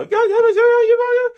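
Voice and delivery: high, loud mock yell of a frustrated coach; imitating a coach yelling. Coach yelling at the player who ran the wrong play, high loud mock yell. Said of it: "Money kept being like".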